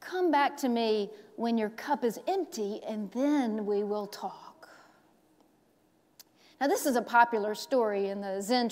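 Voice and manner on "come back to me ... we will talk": put-on understated calm old master; quiet wise man. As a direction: let it settle gently. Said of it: "And then he said to her".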